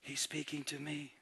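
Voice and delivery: very soft, low and awestruck; hushed awe. Retold or imitated. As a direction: barely voice it, in wonder. Paul awed by the voice.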